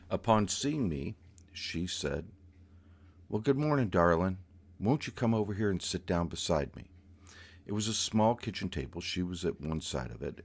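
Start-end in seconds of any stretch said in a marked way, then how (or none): 3.3-6.9 sweet lilting voice. Retold or imitated. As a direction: coax sweetly, sing-song. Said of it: "this beautiful, lilting voice".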